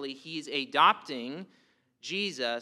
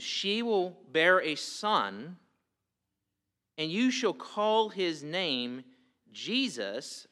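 scripture reading; slower than usual. Acted. Reads the angel's words from scripture.

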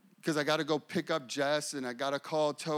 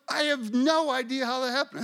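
higher-pitched imitated Southern accent; little Southern voice; 8 semitones higher, 4 dB louder than usual. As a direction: quote her in a Southern voice. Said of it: "in her little southern voice".

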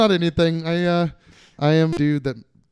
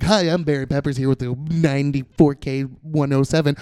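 radio shock jock; 5 dB louder than usual. Retold or imitated. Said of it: "the guy that's like".

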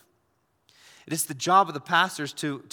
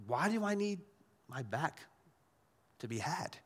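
puzzled retort; 7 dB quieter than usual. Retold or imitated. Pastor answering the coffee shop guy, puzzled. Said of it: "I said".

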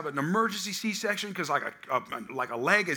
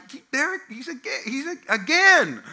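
higher, stammering shock at his return; dismayed disbelief; 7 semitones higher, 4 dB louder than usual. Retold or imitated. Believer waking to find the devil back, stammering dismay. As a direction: stutter it out like you can't believe he's back. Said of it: "you're like".

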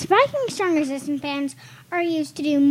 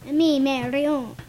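put-on Italian accent. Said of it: "You got Italian for a second".

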